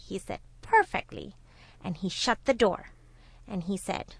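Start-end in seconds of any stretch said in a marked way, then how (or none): 0.6-1.3 high-pitched, pleased reply; very happy. A narrator's reading. Jackal as the tiger is trapped, delighted satisfaction. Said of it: "The jackal was very happy".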